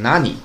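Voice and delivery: 哪里 pronounced as Japanese "nani"; Japanese reading nani. Shown as a demonstration. Teacher giving the reading before particle O, Japanese reading nani. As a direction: model 哪里 as the two-syllable "na-ni". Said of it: "它也要读成哪里".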